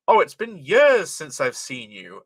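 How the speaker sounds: posh British vowel, leaning on "years"; a touch of posh British on "years". Shown as a demonstration. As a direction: say it a little posh, stretching "years". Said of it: "I sound a little bit posh".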